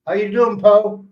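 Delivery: high, eager polite greeting; imitating a respectful greeting. Locals greet the old expat politely, high and eager. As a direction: mimic locals greeting an elder. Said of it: "That's respect".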